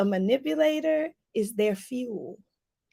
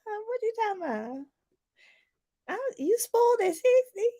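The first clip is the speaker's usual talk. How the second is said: mock disbelief; 10 semitones higher than usual. Mocking a spoiled sixty-year-old.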